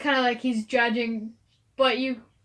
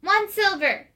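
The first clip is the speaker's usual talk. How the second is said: put-on little girl voice; 8 semitones higher, 5 dB louder than usual. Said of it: "She goes".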